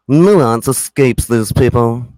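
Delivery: slow smug imitation; mild slow mimicry of a smug man; smug mock voice. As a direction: drag out Nuance like a smug know-it-all. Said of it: "Listen to this smug fuck".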